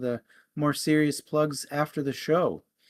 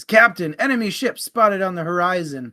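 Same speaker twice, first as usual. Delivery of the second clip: first mate's report; 3 semitones higher, 6 dB louder than usual. Acted. First mate reports in joke.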